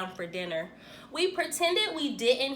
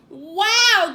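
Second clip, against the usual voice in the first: high, loud amazed wow; be wowed by the pie; impressed wow; 7 semitones higher, 9 dB louder than usual. A narrator's reading. Friend marvelling at the pie, high and loud. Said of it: "Jeremy said".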